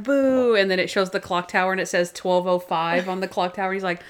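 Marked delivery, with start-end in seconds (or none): 0.0-0.5 slightly raised, held boo; mock jeer, one long vowel; imitated crowd booing. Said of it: "And they're like".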